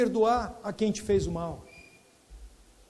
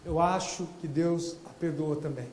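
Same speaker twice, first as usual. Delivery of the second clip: much softer and lower, hesitant; said in pain; 5 semitones lower, 5 dB quieter than usual. Retold or imitated. Man admitting God forgave his mother, pained and soft. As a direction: let the yes come out painfully. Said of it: "Com muita dor ele disse isso".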